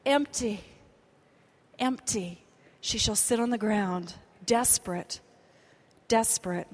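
low hushed repetition; soft and low. Acted. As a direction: let each word sink, quietly. Preacher softly repeats, drops low.

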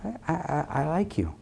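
very soft, tender reassurance; hushed, kindly encouragement; gentle reassuring Lord. Acted. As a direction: reassure softly, as God to a stumbler. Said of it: "the Lord says".

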